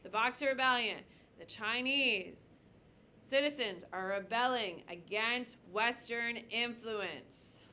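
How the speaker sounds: slow, emphatic dictation for note-taking; teacher dictating a key definition. Shown as a demonstration. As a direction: lay each word down slowly so they can write it. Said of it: "You should probably write this down".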